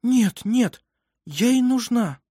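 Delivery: high, quick objection; protective refusal. A narrator's reading. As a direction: insist on keeping hold of the baby. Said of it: "послышался голос Карин".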